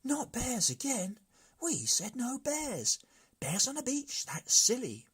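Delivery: high, loud whining protest; a chorus of brigands objecting loudly. A narrator's reading. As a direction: complain together, shrill and loud. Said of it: "the brigands protested".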